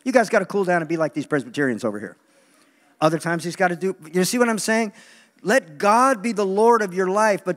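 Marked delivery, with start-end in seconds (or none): 0.0-2.2 God's teasing refusal. Retold or imitated. God telling eager Pentecostals to cool down, teasing. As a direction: brush them off lightly. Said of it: "God might say".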